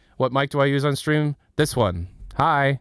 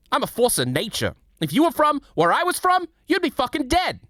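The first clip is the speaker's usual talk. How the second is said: much higher, loud, fast-talking Brooklyn brawler; Scout impression; 5 dB louder than usual. Streamer for chat, higher and loud like Scout. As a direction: yell it like a cocky scrappy runner. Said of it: "I'll do the full impression".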